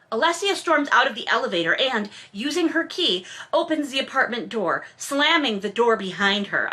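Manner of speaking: reading the novel aloud, measured and even; story narration. A narrator's reading. Host reads the romance novel to listeners, in narration voice. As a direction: narrate the scene like an audiobook.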